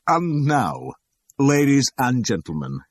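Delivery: grand, loud auctioneer's announcement, pitched high; impressive auctioneer. A narrator's reading. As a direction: open the sale like a showman to the whole room. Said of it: "he said impressively".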